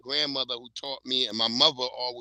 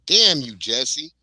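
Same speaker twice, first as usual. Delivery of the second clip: mock curse; 3 semitones higher, 8 dB louder, much slower than usual. Jealous of friend's warm weather.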